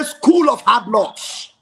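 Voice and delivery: loud call for the crowd to repeat; rally the crowd into a chant. Real, not acted. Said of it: "Somebody say".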